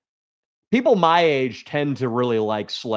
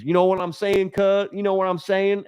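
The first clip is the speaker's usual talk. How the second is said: imitating Wideneck; 8 semitones higher than usual. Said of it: "he'd be like".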